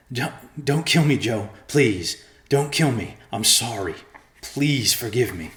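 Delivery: high, loud, desperate pleading; begging for his life. A narrator's reading. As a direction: beg for your life. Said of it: "rasping and begging for his life".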